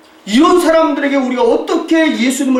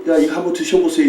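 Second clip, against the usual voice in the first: lower, measured demonstration of courtesy; polite offering; 5 semitones lower, faster than usual. Shown as a demonstration. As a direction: offer it politely, without force. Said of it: "이렇게 말해야 되잖아요". (낮고 공손하게 권하는 시범)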